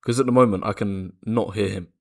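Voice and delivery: glitchy robotic mic audio. Real, not acted. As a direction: voice chopped up like a robot. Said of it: "your voice is kinda robotic".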